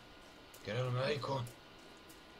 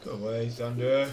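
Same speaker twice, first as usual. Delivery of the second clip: loud shooing call; shout; 10 dB louder than usual. Real, not acted. Player shooing the horse away, loud shout. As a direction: yell to shoo it off.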